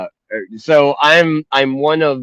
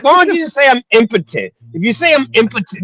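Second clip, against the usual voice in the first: exasperated pleading; 10 semitones higher, faster than usual. Retold or imitated. Son pleading with mom, higher.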